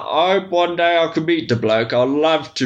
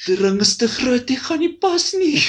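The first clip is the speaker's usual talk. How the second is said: mock Afrikaans film scene; 4 semitones higher than usual. Parodying an Afrikaans Lord of the Rings, hammed-up voices. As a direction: ham up a dubbed movie scene.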